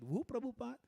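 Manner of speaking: loud, high, baffled question; puzzled. Retold or imitated. Scholar still not understanding the accent, baffled. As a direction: press the confused question harder. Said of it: "he couldn't understand the accent".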